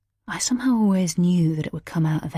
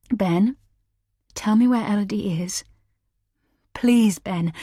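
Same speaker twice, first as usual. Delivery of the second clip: pleading; 4 semitones higher than usual. A narrator's reading. Heroine pleads with husband.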